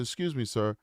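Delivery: understated, courteous youngster addressing a sir; respectful kid. Retold or imitated. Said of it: "I was a very respectful kid".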